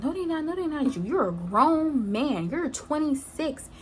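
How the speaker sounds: retold confrontation, indignant and high; accusing. Retold friend confronting the boyfriend.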